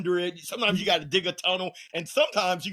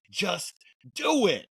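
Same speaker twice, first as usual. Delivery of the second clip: sudden high punch on "do it"; Nike slogan; 3 semitones higher, slower than usual. Acted. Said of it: "like they said".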